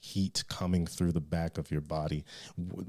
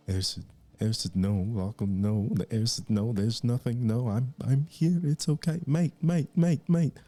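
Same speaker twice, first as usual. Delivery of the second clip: pleading rising higher and louder into panic; panicked pleading; 6 semitones higher, 5 dB louder than usual. Acted. Terrified Bertrand begging Eren, rising higher and louder. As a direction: beg him to stop, voice climbing in terror.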